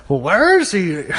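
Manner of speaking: badly faked Boston accent; John Cena, Boston accent. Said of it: "can't even do a John Cena accent".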